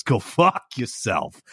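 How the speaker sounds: slow Go fuck yourself, fuck leaned on like held-back laughter; New York curse. Shown as a demonstration. The speaker showing the held-back-laughter New York curse. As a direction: drag fuck out almost laughing. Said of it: "like you're holding back laughter".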